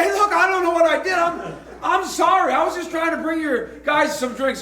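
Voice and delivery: high, rushed apologetic plea; flustered protest. Retold or imitated. Pastor pleading with the association president, high and flustered. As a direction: protest your innocence, flustered. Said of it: "And, and I said".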